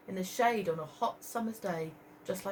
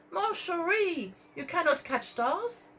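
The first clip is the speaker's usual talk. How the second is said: French ladies; 8 semitones higher, slower than usual. Acted.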